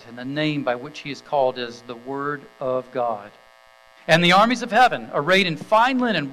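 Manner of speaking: measured, ringing Bible reading to the congregation; scripture reading. Acted. Pastor reading Revelation nineteen to the standing congregation, solemn and proclaiming.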